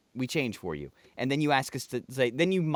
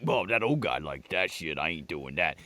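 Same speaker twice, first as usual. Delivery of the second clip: mock dismissive kid; 10 semitones lower, 5 dB quieter than usual. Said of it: "they're gonna be like".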